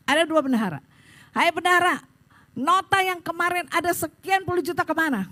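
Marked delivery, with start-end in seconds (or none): 1.3-5.3 high-pitched retold confrontation; acted-out indignant questioning; accusing demand. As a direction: call out the treasurer accusingly. Confronts treasurer before the board.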